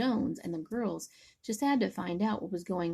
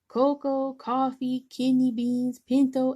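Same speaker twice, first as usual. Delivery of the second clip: higher and louder list; excited; 5 semitones higher, 5 dB louder than usual. Acted. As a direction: rattle off the beans with rising excitement. Excited bean list builds up.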